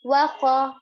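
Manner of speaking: "Wa kha" with a full, heavy kha; weight the kha in "Wa kha", vowels short. Shown as a demonstration. Teacher showing a heavy letter, heavily pronounced kha. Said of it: "going to pronounce it heavily".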